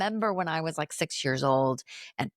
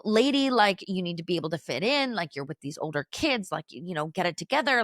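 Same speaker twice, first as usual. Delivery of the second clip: frustrated scolding; 2 semitones higher than usual. Retold or imitated. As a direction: scold the little one, half fed up, half mocking. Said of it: "I was so frustrated".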